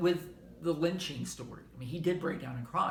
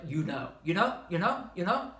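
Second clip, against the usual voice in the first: repetitive verbal tic. Shown as a demonstration. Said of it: "even repetitive words like".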